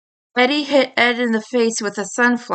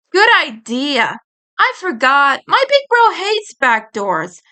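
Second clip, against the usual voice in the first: Eddie's voice; 3 semitones higher than usual. Acted. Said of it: "Eddie said".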